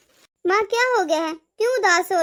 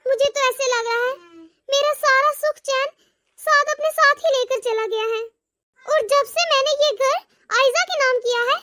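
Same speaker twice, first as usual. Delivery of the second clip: regretful monologue; 2 semitones higher than usual. Acted. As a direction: speak to yourself, full of remorse. Long remorseful monologue by mother.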